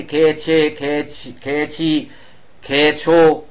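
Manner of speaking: "খেয়েছে, খেয়েছি, খেয়েছো" said as separate, measured examples; teacher reciting the endings one word at a time; pronunciation demo. Shown as a demonstration. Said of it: "এই উচ্চারণগুলো হয়".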